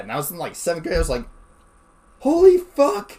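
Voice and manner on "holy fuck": high, loud stunned curse; a high stunned holy fuck; shocked exclamation. Retold or imitated. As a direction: blurt it out in disbelief. Retold shock at news.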